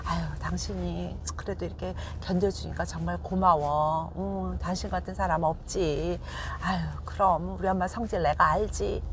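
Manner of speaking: side with the wife in a gentle, soothing voice; consoling husband. Shown as a demonstration. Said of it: "아내한테 와서는".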